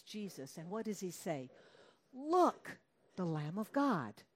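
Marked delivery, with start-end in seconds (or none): 2.1-4.2 proclaiming John. Acted. John the Baptist proclaiming Jesus.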